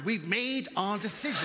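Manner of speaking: slow stubborn insistence; stubborn Brit repeating the verdict. Retold or imitated. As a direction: dig in and refuse to budge, slowly. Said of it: "the stubborn Britishness of that".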